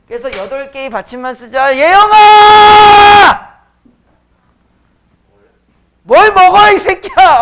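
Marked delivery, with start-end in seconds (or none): 1.8-7.4 furious shout at a student; yelling. Real, not acted. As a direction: bellow the name, at full power. (학생에게 소리치는 화난 고함)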